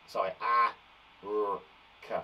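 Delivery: a, r, k spelt out slowly; name each letter slowly for the class; teacher spelling shark out. Shown as a demonstration. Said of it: "so it's a s, h".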